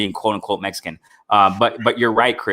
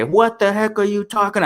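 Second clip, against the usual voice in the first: much higher, lightly mocking disbelief; mock media outrage; 10 semitones higher than usual. Imagined media grilling the fighter, high mock disbelief. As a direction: toss it up high like an outraged reporter. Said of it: "They would say".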